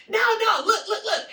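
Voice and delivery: high, loud urging; excited insisting. Retold or imitated. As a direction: shush the question and urge them to watch. Re-enacts urging guide to watch.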